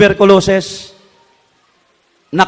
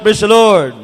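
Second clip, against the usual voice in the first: shouted call. Shown as a demonstration. Preacher leads congregation in a shouted call and response. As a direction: lead the crowd's shout of praise.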